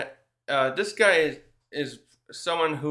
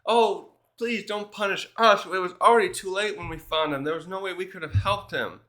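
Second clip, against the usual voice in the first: mildly acted worried plea, higher pitched; worried pleading; 5 semitones higher than usual. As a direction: plead lightly as if fearing punishment. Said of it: "they're worried he's gonna punish them".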